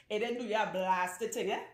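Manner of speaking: mock-scolding Trinidadian accent with a tag-on eh. Shown as a demonstration. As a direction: tease it out in a Trinidadian lilt. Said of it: "Let me say it in my Trinidadian accent".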